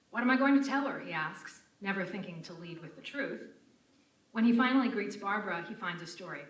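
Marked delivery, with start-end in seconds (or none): 0.1-1.0 mock panic. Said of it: "a panicking Jerry".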